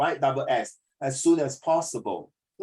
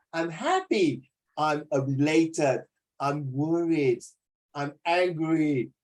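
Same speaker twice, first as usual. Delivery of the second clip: slow mood demo; much slower than usual. Shown as a demonstration. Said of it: "you must bring out the moods".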